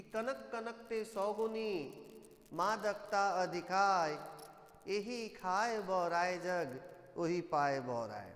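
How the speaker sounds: slow, drawn-out couplet recitation; verse recitation. Shown as a demonstration. Teacher quoting an example couplet to pupils, slow verse recitation. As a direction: recite the verse slowly, stretching the syllables. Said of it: "मैं एक उदाहरण बोल रहा हूँ".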